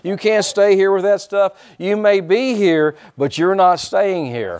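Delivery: loud, emphatic rebuke, slowing down; firm command. Acted. Preacher ordering sickness out, loud and slowing for weight. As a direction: drive each word home as you order it out.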